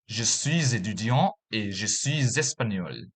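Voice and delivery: "je suis espagnol" with the pitch falling on "espagnol"; falling statement tune. Shown as a demonstration. Teacher showing learners a French statement falling at the end. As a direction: let the voice drop on "espagnol" at the end. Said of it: "the intonation will fall at the last word".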